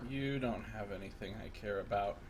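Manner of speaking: lightly voiced, low scratchy character; a hint of a bloke, low and soft. Player voicing her character, lightly scratchy bloke voice. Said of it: "sound like an Irish bloke".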